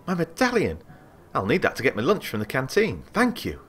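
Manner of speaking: sudden delight at the lost medallion; relieved artificer. Acted.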